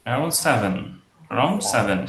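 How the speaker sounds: falling tune on SEVEN; downward statement. Shown as a demonstration. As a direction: state it simply, letting SEVEN drop. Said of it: "just downward যাবে".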